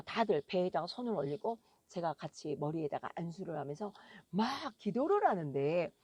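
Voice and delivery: normal talking voice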